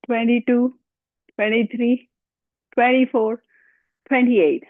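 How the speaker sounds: counting reps while straining, breath short; pushed count through a held belly squeeze; strained slightly high counting during the workout. Real, not acted. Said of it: "I'm out of breath".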